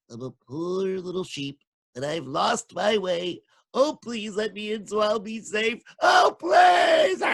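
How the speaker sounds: little tiny voice. Acted. Wolf pretending to be a lost sheep. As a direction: whimper sweetly to trick them. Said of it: "A little tiny voice".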